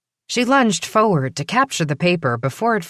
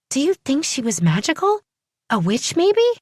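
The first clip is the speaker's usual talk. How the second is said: excited; 10 semitones higher than usual. Acted. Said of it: "looked up in excitement".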